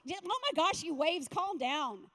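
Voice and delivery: exasperated scolding, high then slowing; mock rebuke. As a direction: scold lightly, stretching out the last words. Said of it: "He rebukes them like".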